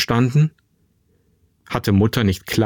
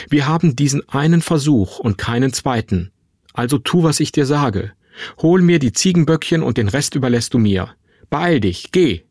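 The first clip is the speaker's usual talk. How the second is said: urgent command; 3 semitones higher than usual. Acted. Mother urgently orders her son off.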